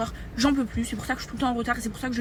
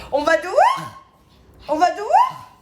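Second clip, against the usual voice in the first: high, loud sing-song pet talk; 7 semitones higher, 9 dB louder than usual. Real, not acted. Owner greeting her excited dogs in baby talk. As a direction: coo at the dogs like toddlers.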